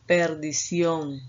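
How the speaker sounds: Perdición spelt out slowly, per-di-ción; slow syllable by syllable. Shown as a demonstration. Teacher sounding out Perdición for the class, slowly. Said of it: "la sílaba ción".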